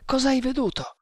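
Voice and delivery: high-pitched startled question; jumpy, voice leaping high. A narrator's reading. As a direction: ask it with a jolt of alarm. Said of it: "chiese il Maharatto trasalendo".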